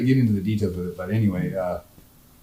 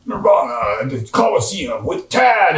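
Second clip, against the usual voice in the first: monster truck ad; 4 semitones higher than usual. Retold or imitated. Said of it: "monster truck voice".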